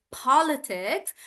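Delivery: politics said POL-i-tics, slow; stress on po. Shown as a demonstration. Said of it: "I'm stressing on paw".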